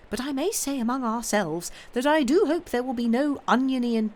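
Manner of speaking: lightly voiced busy old nurse; Miss Pross voice.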